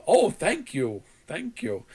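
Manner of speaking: mock-polite, precise phone agent; imitated customer service politeness; over-enunciating. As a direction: thank them with scripted, careful courtesy. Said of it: "but he was over enunciating".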